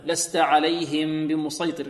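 عليهم بمسيطر with the noon hidden into a full nasal ghunnah; ikhfa with ghunnah. Shown as a demonstration. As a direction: hold the ghunnah before بمسيطر. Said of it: "هنا إخفاء مع الغنة". (إخفاء مع غنة كاملة)

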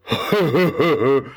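big rolling laugh; booming belly laugh. A narrator's reading. Fat man roaring with laughter at the old man. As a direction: shake with laughter. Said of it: "колыхался от смеха".

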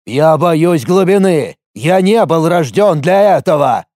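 high, anguished confession, drawn out at first; crying out. A narrator's reading. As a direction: blurt out the fear at high pitch. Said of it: "наконец крикнул он".

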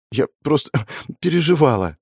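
speaking through a small laugh; a girl laughing off her worry; embarrassed chuckle. A narrator's reading. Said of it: "хмыкнула она". (смущённый смешок)

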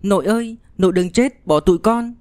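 put-on high-pitched pleading child; tearful child's plea. A narrator's reading. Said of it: "mếu máo, khóc lóc". (giọng trẻ mếu máo van nài)

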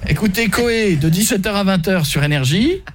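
slowly dictating the slogan; slow slogan read. Shown as a demonstration. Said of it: "à quel niveau de la phrase".

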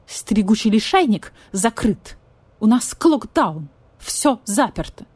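slow, measured official voice; slow stern vulture. Acted. Vulture explains lockdown to cat, slow and stern. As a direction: lay down the rules slowly.

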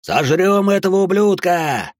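громкий высокий рык толпы; зарычи жадно и злобно; рычание. Acted. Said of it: "зарычали люди в масках". (люди в масках рычат на мальчика)

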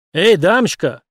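loud sharp call out; barking. A narrator's reading. Cop barking at the woman with the camera. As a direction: bark at her to back off. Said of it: "рявкнул он".

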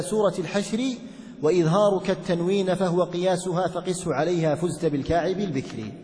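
measured, lightly chanted verse reading; poem recitation. Acted. Teacher reciting the didactic poem for students, measured chanting. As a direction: recite the verses in an even, rhythmic flow.

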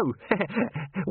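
a quick amused chuckle before the question; short chuckle; short laugh. Acted. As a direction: break into a brief laugh. Chicken Wire laughs before speaking.

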